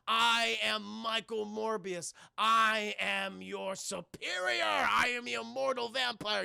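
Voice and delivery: slow, grandiose villain proclamation; Michael Morbius. Acted. Villain announcing himself to Parker, grandiose. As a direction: declaim each word like a pompous vampire.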